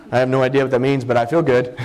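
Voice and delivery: half-laughing mock teen. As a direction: chuckle through a clueless teen's thought. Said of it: "they're thinking".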